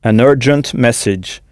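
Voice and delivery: "urgent" said UR-jent with an English er sound; teacher models "An urgent message" carefully; model pronunciation. Shown as a demonstration. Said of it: "On emploie l'article an".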